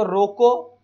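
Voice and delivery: slow, spaced-out example sentence; example line. Shown as a demonstration. Teacher reading an example line to students, slow and deliberate. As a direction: read it out word by word. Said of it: "जैसे example देखो".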